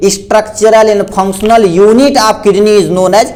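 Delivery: very slow definition read for notes; slow dictation. Shown as a demonstration. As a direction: dictate word by word. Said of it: "तो बोलेंगे".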